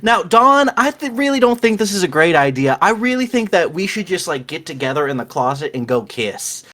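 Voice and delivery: earnest pleading tone; Saren's voice. Acted. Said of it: "in Saren's voice".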